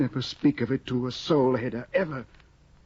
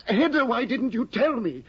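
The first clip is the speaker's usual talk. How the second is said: high, startled and distressed; alarmed surprise; 7 semitones higher than usual. Acted. Tesman hears from Hedda that his aunt is ill, high and startled. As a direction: caught off guard by bad news. News of the aunt's illness.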